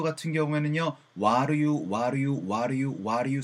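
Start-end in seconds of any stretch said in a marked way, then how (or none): 1.2-3.4 "what do you" run together as waɾɯ ju; linked reduced sound. Shown as a demonstration. Teacher demonstrating reduced "what do you" sound. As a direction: flap the t, swallow the do in "what do you". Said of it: "사운드로 많이 전달을 받으실 수가 있어요".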